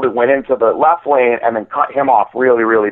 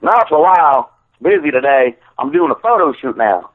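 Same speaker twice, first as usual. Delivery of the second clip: lightly imitated accent of a friend, slightly raised; Timbo's accent. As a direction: put on your buddy's accent for the read-out. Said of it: "I'm doing it in his accent".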